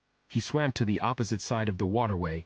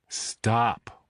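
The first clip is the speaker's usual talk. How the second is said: sleepy, stifling a yawn; fighting a yawn. Acted. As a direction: talk through a yawn. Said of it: "I said, fighting a yawn".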